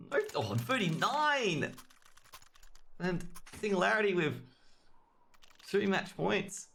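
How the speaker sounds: high, drawn-out caster call; excited play-by-play. Real, not acted. Caster calls thirty-nine, match points.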